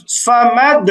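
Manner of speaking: "সামাদ" with a released, echoing d; bouncing qalqalah. Shown as a demonstration. Teacher gives a practice word, bouncing qalqalah. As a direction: push off the final d of "সামাদ". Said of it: "কলকলা করতে হবে".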